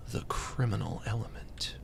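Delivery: unvoiced sneaky whisper. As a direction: breathe it like a lurking villain.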